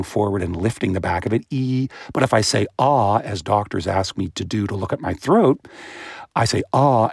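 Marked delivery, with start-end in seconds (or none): 1.5-1.9 E said with the tongue forward, mouth small; bright E vowel. Shown as a demonstration. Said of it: "made the mouth resonator very small". 2.8-3.2 ah said with the mouth wide open, tongue back; doctor's open ah; open ah vowel. Shown as a demonstration. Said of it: "making the mouth really big". 6.7-7.1 ah said with the mouth wide open, tongue back; doctor's open ah; open ah vowel. Shown as a demonstration. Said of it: "making the mouth really big".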